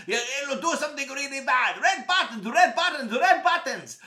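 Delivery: high, loud panicky outburst; panicked warning. Acted. Friend warns about red buttons, panicking. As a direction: repeat it in rising alarm.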